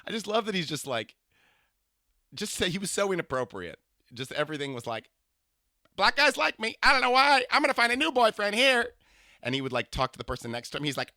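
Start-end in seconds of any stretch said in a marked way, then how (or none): 6.0-8.9 high, loud, sing-song camp voice; imitating a flamboyant older man. To a stranger on the subway, gushing camp impression. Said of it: "I imitate people".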